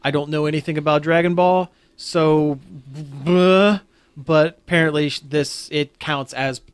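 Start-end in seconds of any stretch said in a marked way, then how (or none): 2.9-3.8 dismissive bleh. Real, not acted. Dismisses own ignorance of Dragon Ball.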